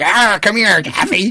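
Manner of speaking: high, leering creepy dad voice; creepy come-on. Retold or imitated. Retelling the movie, imitates a creepy dad calling Taffy. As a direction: lure her in, high and oily.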